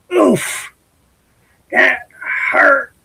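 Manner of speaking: high squeaky yelp of pain; ouch. Acted. Bird stepping on a thorn, high pained squeak. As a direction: squeal it like a hurt little bird.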